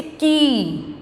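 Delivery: की with a long, drawn-out ee; long vowel. Shown as a demonstration. Teacher showing the long vowel sign, की stretched out. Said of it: "इस मात्रा को बोलने में समय लगता है".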